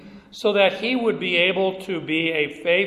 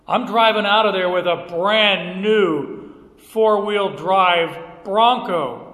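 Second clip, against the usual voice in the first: gleeful brag, louder; excited; 5 dB louder than usual. Retold or imitated. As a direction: savour the new Bronco, slowing at the end. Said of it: "Am I happy?".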